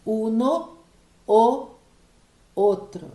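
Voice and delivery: "uno, o, outro" slowly, the lone O loud and set apart; repeated O sound. Shown as a demonstration. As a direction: isolate each O in "uno, o, outro". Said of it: "viram que repetiu o som".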